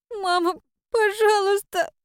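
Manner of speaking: high, tearful plea drawn out slowly; a weeping girl, barely holding on; girl pleads with her mother through tears. A narrator's reading. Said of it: "сквозь слёзы прошептала девочка".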